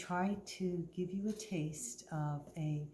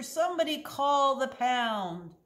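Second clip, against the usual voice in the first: high, loud tearful plea; crying plea; 7 semitones higher, 7 dB louder, slower than usual. Acted. Fallen manager begs the staff, crying out. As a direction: beg through tears. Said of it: "he started to cry".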